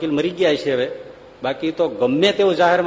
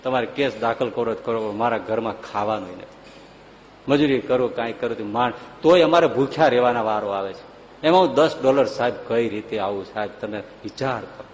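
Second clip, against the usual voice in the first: a touch of tears, begging the lawyer; poor neighbour pleading with Lincoln, tearful; 5 semitones lower than usual. Retold or imitated. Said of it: "રડી પડ્યો".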